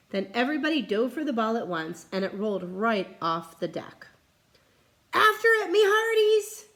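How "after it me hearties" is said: high, loud order; pirate command. Acted. Captain orders crew after ball, loud. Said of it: "Braidbeard commanded".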